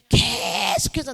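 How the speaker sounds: 계속해서 stretched long on 계; drawn-out emphasis. Acted. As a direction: lean hard and long on the start of 계속해서. Stretches word to show endless repetition.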